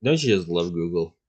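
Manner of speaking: dry sarcastic jab. Real, not acted. Co-host repeating the dig at Google, sarcastic. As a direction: ask it as if praising, meaning the opposite. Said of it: "I was being sarcastic".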